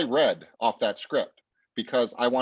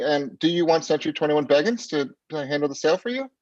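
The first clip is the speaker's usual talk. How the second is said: higher pitch, "over", "questions", "property", "sell" all lifted like questions; hesitant upswing on "property" and "sell", every phrase ending unsure; upswing inflection; 5 semitones higher than usual. Shown as a demonstration. Sales coach showing agents the wrong way, hesitant upswings. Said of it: "upswings versus downswings. Listen to the difference".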